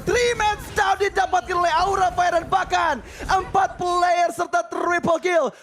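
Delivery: high, slow, shouted hype call; fighting game announcer. Real, not acted. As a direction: roar the triple kill to the crowd. Hyped esports play-by-play call.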